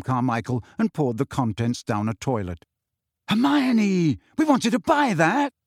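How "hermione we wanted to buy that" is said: higher, louder protest; indignant shout. Acted. Ron protests to Hermione about the potion, shouting. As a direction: yell it in outrage. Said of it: "shouted Ron".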